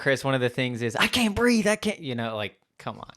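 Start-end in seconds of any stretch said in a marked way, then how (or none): 1.0-2.0 high-pitched imitation of pleading; hammed-up high cry; mock plea. Acting out someone's plea.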